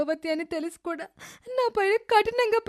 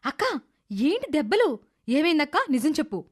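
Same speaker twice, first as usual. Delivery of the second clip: firm demand. Acted. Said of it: "అంటూ నీలిమ గట్టిగా అడుగుతోంది".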